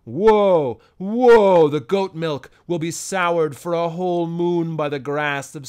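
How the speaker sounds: put-on loud, fearful old man's warning; rising to a loud woe; trembling cry. Frightened uncle warning the boy of demons, loud. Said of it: "he cried out in a trembling voice".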